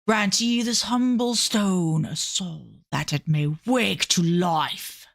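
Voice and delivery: slow, drawn-out ritual reading; incantation. Acted. Calling a soul into a humble stone, slow incantation. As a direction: intone a solemn spell. Reads a summoning chant in character.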